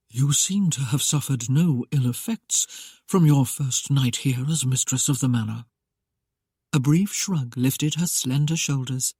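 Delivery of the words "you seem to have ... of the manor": lightly amused, softened tone; softened with humour. Acted. Masked lord teasing his bride, mildly amused. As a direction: tease her gently. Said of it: "His tone was softened with humour".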